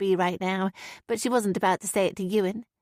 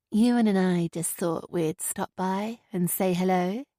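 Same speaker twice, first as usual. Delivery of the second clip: reassuring. Acted. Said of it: "reassuring smile of any of them".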